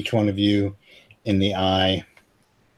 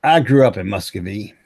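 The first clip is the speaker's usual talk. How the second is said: lightly voiced American hick old-timer; American hick accent. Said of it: "go with total American hick here".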